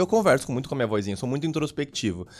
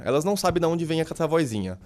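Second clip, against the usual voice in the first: usual speaking voice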